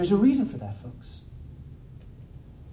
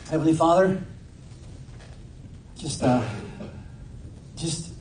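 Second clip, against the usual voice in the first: prayer. Acted. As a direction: pray humbly over the room. Leads closing prayer.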